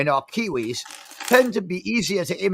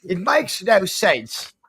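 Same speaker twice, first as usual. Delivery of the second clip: put-on New Zealand accent. Kiwi-accented guest complaining about Twelve Monkeys, New Zealand accent. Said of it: "my New Zealand accent".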